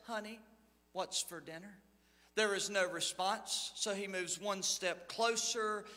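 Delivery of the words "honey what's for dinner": much softer, barely above a murmur; softly. Retold or imitated. Husband quietly testing his wife's hearing, soft. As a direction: ask gently, testing if she hears. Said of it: "he softly says".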